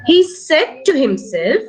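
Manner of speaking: careful phrase left hanging to be repeated; read-after-me model. Shown as a demonstration. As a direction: lead the child through it slowly. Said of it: "Read after me".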